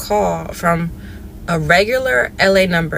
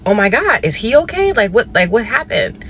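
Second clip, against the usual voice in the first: retold panic; 3 semitones higher than usual. Retelling the scam call, a touch of alarm. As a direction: rush out the worry about the brother. Hearing brother arrested, panicking.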